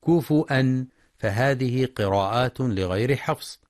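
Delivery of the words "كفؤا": كفؤا as "kufu'an", with a glottal stop; كفؤا, u on the f, then hamza; hamza reading. Shown as a demonstration. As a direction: break كفؤا with a hamza after "kufu". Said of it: "بالهمزة مع ضم الفاء".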